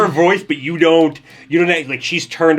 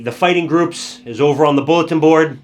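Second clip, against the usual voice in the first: loud festival announcement; announcer voice; 5 dB louder than usual. Acted. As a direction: call it out to the crowd. NPC announces to festival crowd.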